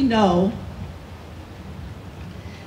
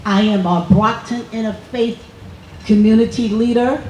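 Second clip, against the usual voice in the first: Leader held up with a rising finish; stress on Leader. Real, not acted. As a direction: lean on the word Leader. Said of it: "emphasis on leader".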